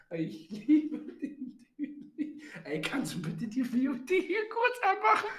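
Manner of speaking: laughing. Real, not acted. Laughing request.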